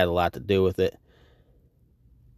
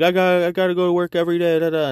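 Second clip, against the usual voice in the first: high, fast mocking voice; a hint of a whiny nag; 9 semitones higher, faster than usual. Mocking someone with a job.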